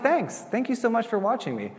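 high, sugary mock politeness; sarcastic sweetness. Pastor to spying neighbor, high mock-sweet reply. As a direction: chirp it back falsely sweet.

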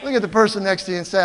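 ordinary talk, nothing marked

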